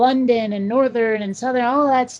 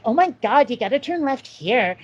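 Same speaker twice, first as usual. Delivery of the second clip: lightly voiced Valley girl accent. Podcast guest mimics a missing text-to-speech accent, Valley girl. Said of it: "like, a Valley girl".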